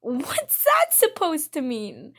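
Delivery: slow, breathy unvoiced whisper of offence; inner thought whisper. Girl thinking back at a rude classmate, whispered slow. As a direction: hush it like a thought kept inside. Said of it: "in my head".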